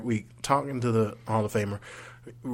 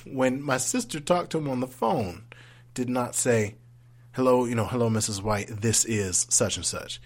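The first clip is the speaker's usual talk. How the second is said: mock indignant. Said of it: "in a very unprofessional voice".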